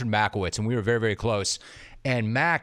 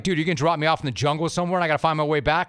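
laughing; 3 semitones higher, faster than usual. Retold or imitated. Panicked retold reply, laughing.

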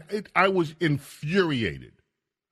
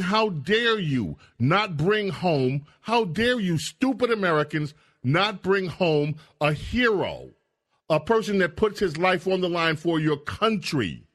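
higher-pitched, mildly scolding retort; mock indignation; 4 semitones higher than usual. Host mimicking Russians scolding stupid Americans, mock indignant. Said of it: "They're saying".

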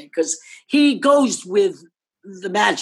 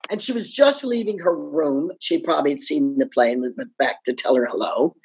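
ordinary talk, nothing marked

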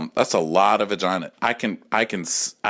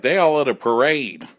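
high excited gay-bar squeal; 11 semitones higher, 3 dB louder, slower than usual. Retold or imitated. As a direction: squeal it like party time. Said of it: "We were like".

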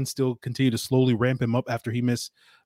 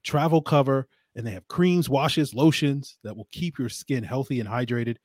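ad read. Acted. Host reads the Harry's sponsor spot to listeners, as an ad read. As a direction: sell the razors like a host's ad spot.

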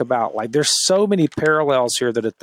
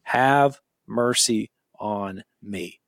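slow humble plea; 3 semitones lower, 3 dB quieter, much slower than usual. Shown as a demonstration. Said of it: "these words right here".

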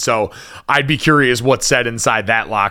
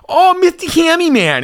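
very high, gushing pet-owner voice; dog voice; 4 dB louder than usual. Shown as a demonstration. Owner showing love and affection to his dog, dog voice. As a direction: coo at your dog in a squeaky high voice. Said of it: "if you don't like my dog voice".

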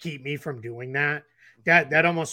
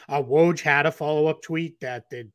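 hiccups. Real, not acted. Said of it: "I'm getting the hiccups".

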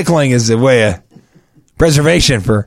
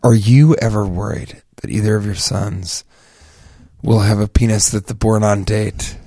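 hushed; 5 semitones lower, 5 dB quieter than usual. Acted. Hushed talk, kids asleep.

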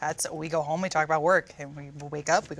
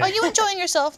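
high, louder cooing baby talk in a mock Irish accent; 5 dB louder than usual. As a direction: coo at a toddler in a put-on Irish accent. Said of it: "Why the Irish accent?".

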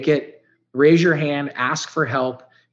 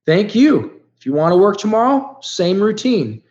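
higher, louder friendly boss voice, then slowing on the last words; voicing his boss; 6 semitones higher, 4 dB louder than usual. Boss dropping him off after a day of labor, voiced higher and louder. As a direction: play the boss thanking him and offering more work. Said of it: "And he goes".

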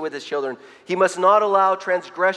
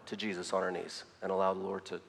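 softer, calm invitation fading out; gentle instead of yelling; 7 semitones lower, 8 dB quieter than usual. Retold or imitated. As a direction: speak gently where you'd want to yell. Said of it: "rather than yelling".

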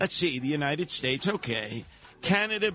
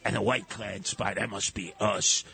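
mock spy voice; 7 semitones lower than usual. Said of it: "and he would say".

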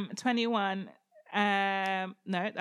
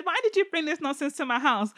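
mock indignant; 3 semitones higher than usual. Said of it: "he said".

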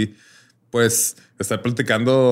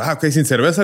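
vendor voice; 6 semitones higher, 3 dB louder than usual. Retold or imitated. Retelling the vendor's reply.

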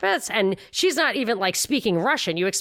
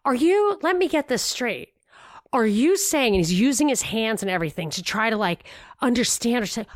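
mocking the host; 3 semitones higher than usual. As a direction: play the host as baffled and condescending. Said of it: "so the guy says".

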